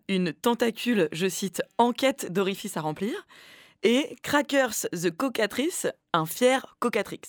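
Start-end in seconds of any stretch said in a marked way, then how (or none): 3.8-5.9 slow, mock English pronunciation; hammed-up English accent on the name; slow, jokey English accent. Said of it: "avoir un si bel accent anglais".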